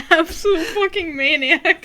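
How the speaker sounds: laughing. Real, not acted. Laughing reading answer.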